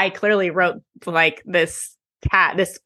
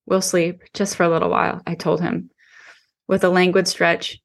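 steady audiobook narration; story narration. A narrator's reading. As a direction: read it like an audiobook. Reads novel chapter aloud.

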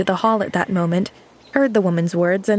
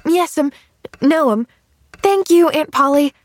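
bright, high, joyful thanks; exulting; 8 semitones higher, 4 dB louder than usual. A narrator's reading. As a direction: burst out with delight. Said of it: "exulted Pollyanna".

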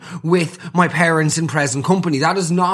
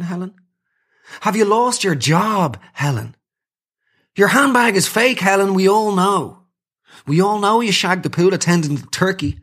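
mocking taunt; 3 semitones higher than usual. Mock roast of Helen.

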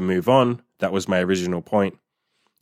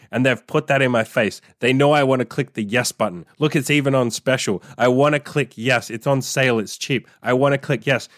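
higher-pitched, hammed-up indignant rant; retold rant to his girlfriend, pitched up in mock indignation; mock outrage; 4 semitones higher than usual. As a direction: play up the outrage at the sneaky sales trick. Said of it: "And I turned to Imogen and I said".

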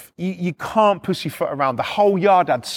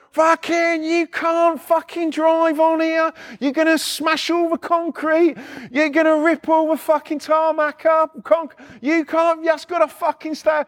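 irate yard worker shouting at the driver, pitched high; angry bloke; 9 semitones higher than usual. Retold or imitated. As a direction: do the furious site bloke yelling at the digger. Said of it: "This bloke's coming out".

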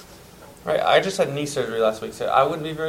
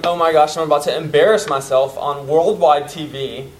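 mock panic; 7 dB louder than usual. Nervous sprinter before the race, in mock panic. Listener panicking at starting line.

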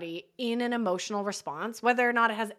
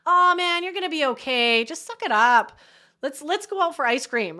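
higher and louder, brushing the feelings aside; dismissive brush-off; 5 semitones higher, 5 dB louder than usual. Shown as a demonstration. Coach shows friend the wrong way to comfort, brushing off. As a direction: hurry them out of their sadness, briskly. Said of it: "And how that sounds, the difference here is the difference between".

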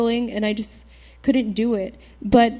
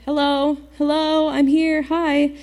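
mock calling to someone distracted; calling for attention; 4 semitones higher, slower than usual. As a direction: try to get through to someone on their phone. Trying to reach someone distracted by phone.

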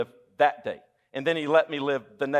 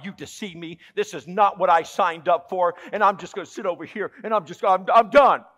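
pouting believer; 2 semitones higher, 5 dB louder than usual. Acted. Preacher acts pouting believer.

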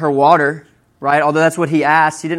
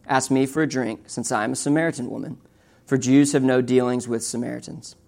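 measured, softer and slightly lower reading voice; scripture reading; 3 semitones lower, 4 dB quieter than usual. A narrator's reading. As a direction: read the passage aloud soberly. Reads Bible passage aloud.

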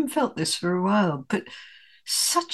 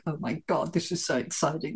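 excited gasp; 4 semitones lower, 10 dB quieter than usual. Retold or imitated. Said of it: "I'm going".

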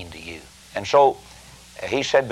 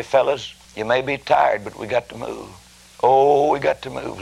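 God urging drivers; 3 semitones higher, slower than usual. Acted. God rousing heaven's truck drivers.

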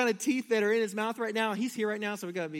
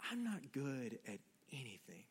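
put-on tearful child; 9 semitones lower, 15 dB quieter than usual. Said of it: "He started just crying".

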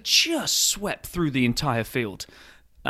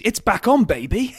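higher and louder, hammed-up fan cheer; mock hype; 9 semitones higher, 6 dB louder than usual. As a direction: gloat like a giddy Ferrari fan.

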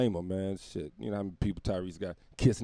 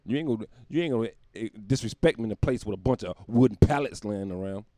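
indignant Tyrese; 5 dB louder than usual. Retold or imitated. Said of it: "He said".

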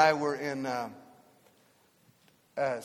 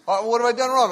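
startled driver; 6 semitones higher, 7 dB louder than usual. Retold or imitated. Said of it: "Would you get out of the car".

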